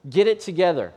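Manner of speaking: a dad losing patience; frustrated father. Retold or imitated. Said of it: "I'm looking back at him going".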